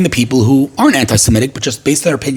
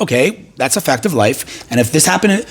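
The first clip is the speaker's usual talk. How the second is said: calm acceptance. Acted. Someone accepting a fact of life, calm acceptance. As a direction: take it calmly and evenly. Calm alternative to the alarmed reaction.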